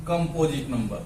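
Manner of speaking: slow, piece by piece with long pauses; dictation. Real, not acted. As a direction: dictate it slowly for note-taking. Dictates sentence for students to write.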